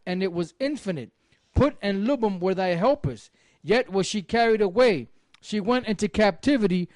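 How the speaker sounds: measured, solemn Bible reading; steady solemn reading voice; scripture reading. Acted. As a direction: read it like the King James from the pulpit. Reads Nahum chapter aloud.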